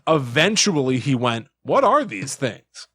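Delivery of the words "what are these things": slow wondering quote. Retold or imitated. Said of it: "the phrasing on this is so specific".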